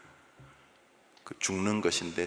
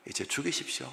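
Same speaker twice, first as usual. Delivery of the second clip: softer, sighing plea to die; sulky hushed death wish; mock despair; 5 dB quieter than usual. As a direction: sigh it out like a sulking prophet. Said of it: "비아냥하는 이야기입니다".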